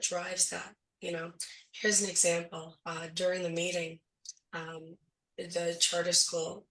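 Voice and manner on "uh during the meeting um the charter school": hoarse voice. Real, not acted. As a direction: voice giving out, hoarse and strained. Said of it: "I'm losing my voice".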